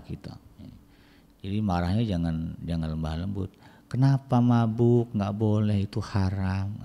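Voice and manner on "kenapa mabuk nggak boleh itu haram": slow, gentle, toothless telling-off; a lax parent's slow, weak reproach; limp scolding. Shown as a demonstration. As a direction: scold without any force. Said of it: "Itu nggak marah, ya".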